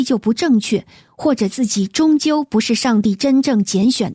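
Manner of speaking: measured read-aloud with a lively rise and fall; radio host reading a letter aloud. Acted. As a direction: read out a listener's letter phrase by phrase. Reads a listener's letter.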